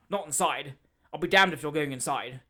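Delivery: 1 angry objection. Acted. Stranger objects angrily.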